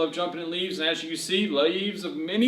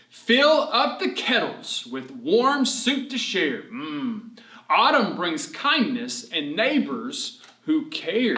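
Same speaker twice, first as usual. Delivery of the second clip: poem reading; 3 semitones higher, slower than usual. Acted. Reads rhyming verse.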